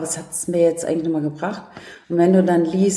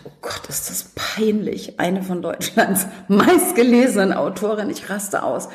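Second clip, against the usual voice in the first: panicked whisper; 3 semitones higher than usual. Retold or imitated. Panicking over misspelled name.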